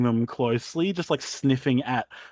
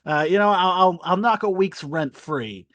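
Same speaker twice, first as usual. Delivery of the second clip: soothing landlord; 2 semitones higher than usual. Acted. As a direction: shoo her off gently. Landlord sends duck away.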